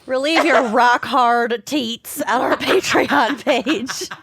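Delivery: laughing slow pitch. Pretend. Slow mock ad line, laughing.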